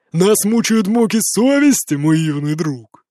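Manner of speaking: put-on drunk sarcasm. A narrator's reading.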